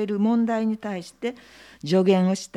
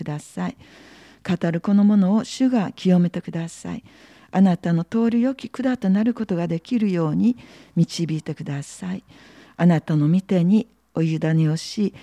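prayer; 3 dB louder than usual. Acted. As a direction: pray earnestly before the sermon. Leads an opening prayer.

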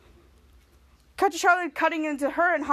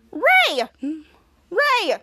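shouting his name; 3 semitones higher, 5 dB louder than usual. Retold or imitated. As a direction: shout to stop him. Charlotte shouting at Ray.

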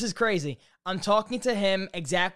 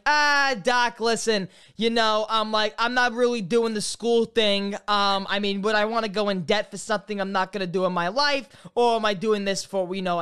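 slick dismissive brush-off; 3 semitones higher than usual. Retold or imitated. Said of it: "I am so slick now".

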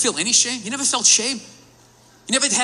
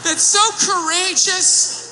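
high slow mocking praise; mock gushing; 5 semitones higher, slower than usual. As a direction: gush sarcastically.

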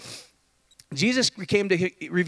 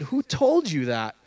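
gentle God voice; 2 semitones lower, slower than usual. Retold or imitated. God asking Adam and Eve, slow and gentle. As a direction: ask it slowly like a caring father. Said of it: "that's what he said".

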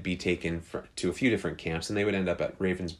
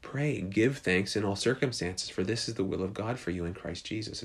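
calming. Retold or imitated. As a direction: settle her down gently. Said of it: "Betsy calms her down".

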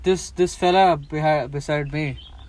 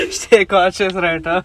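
tipsy, slow and giggly; 4 semitones higher, 8 dB louder, slower than usual. Real, not acted. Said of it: "I'm struggling to, you know".

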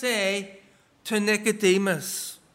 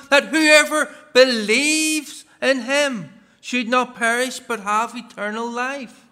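measured, solemn Bible reading; scripture reading; 2 semitones higher than usual. Acted. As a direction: read the verse like from the pulpit. Reads scripture aloud.

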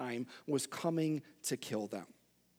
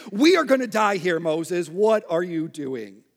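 much higher, louder panicked yelling; panicked shout; 8 semitones higher, 10 dB louder than usual. Pretend. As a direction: scream at Moses in disbelief. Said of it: "punched him in the face".

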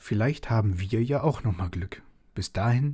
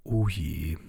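lower, grumbly father voice; sleepy father's reluctant groan; grumbling dad; 4 semitones lower than usual. Acted. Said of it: "brummte Papa".

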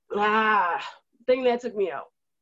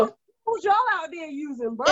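joking shout; 4 semitones higher than usual. Real, not acted. Joking about beheaded statue.

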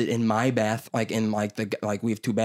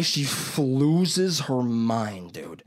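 ordinary talk, nothing marked

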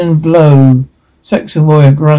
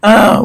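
short, higher-pitched "ah"; mock battle cry; 6 semitones higher than usual. Reader voicing a warrior in battle, mock cry.

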